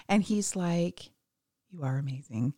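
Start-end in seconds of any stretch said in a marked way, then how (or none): 1.7-2.5 soft, low, hushed; whispered compliment. Retold or imitated. Host imitating the love interest, softly murmuring. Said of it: "whisper talks".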